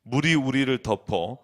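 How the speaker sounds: low, measured psalm reading; scripture reading. Real, not acted. Preacher reads the psalm to congregation, measured low recitation.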